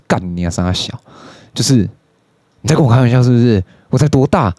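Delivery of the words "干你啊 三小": inner grumble. Retold or imitated. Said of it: "用现在的语言表达出来就是".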